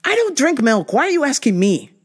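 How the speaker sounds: fed up, throw the question back; exasperated. Retold or imitated. Exasperated retold reply.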